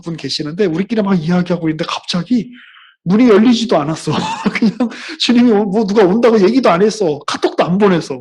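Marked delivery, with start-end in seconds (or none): 3.0-8.2 louder, higher storytelling burst; excited telling. Retold or imitated. Preacher picturing a sudden visitor, excited. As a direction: build the surprise with energy.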